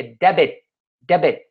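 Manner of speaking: "debit" with the final T left unreleased; silent final T. Shown as a demonstration. Teacher showing that you don't pronounce the T, "debit" without it. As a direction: say "debit" as "deh-beh", stopping before the T. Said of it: "Você não pronuncia o T".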